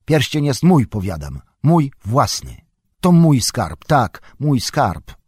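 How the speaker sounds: guard it like a hoard; a hobbit starting to sound like Gollum; possessive anger. A narrator's reading. Bilbo possessive, echoing Gollum.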